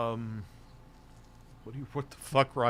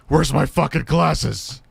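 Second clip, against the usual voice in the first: slow, higher, louder goofy voice; silly character voice; 5 semitones higher, 7 dB louder, slower than usual. Acted. Streamer voicing a clip character, slow, high and loud. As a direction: ham up a dopey voice asking for the glasses. Mock character voice while watching.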